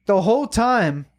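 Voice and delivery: "whole" stretched high and slow; emphasis on whole. Real, not acted. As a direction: lean hard into "the whole time", drawn out. Ranting about annoying woman.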